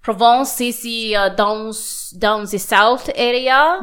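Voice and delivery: put-on hammy French accent; mock French, half-hearted; bad French accent. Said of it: "I did a bad French accent there".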